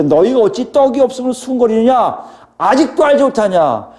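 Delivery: rapid-fire rebuke, pitched high; high, insistent acted reprimand; Jesus. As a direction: fire off scolding questions one after another. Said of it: "이건 굉장히 빨리 속사포로 하시는".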